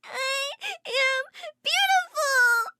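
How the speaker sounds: put-on high, slow, sobbing little girl; crying child. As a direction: wail it through tears like a hurt kid. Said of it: "Haley burst into tears".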